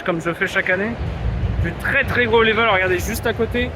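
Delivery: worn-out hoarse voice; hoarse from yelling. Real, not acted. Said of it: "j'ai la voix défoncée".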